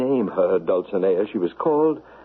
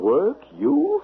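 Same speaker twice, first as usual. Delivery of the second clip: incredulous; 13 semitones higher than usual. Acted. Incredulous knight.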